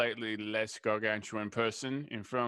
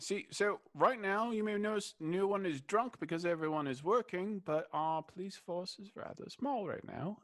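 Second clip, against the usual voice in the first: gnome voice; 4 semitones higher than usual. Acted. Gnome voice excited.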